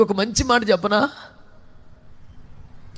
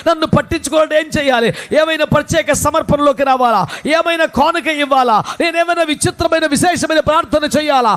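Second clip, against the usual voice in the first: listener's pleading questions; 7 semitones higher, 3 dB louder than usual. Retold or imitated. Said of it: "ఒకవేళ నన్ను అడుగుతావా".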